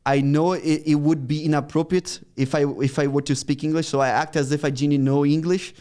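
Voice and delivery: English with a Brazilian Portuguese accent; put-on Brazilian-accented English. Shown as a demonstration. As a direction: pose as a Brazilian with limited English. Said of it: "the, the Brazilian accent".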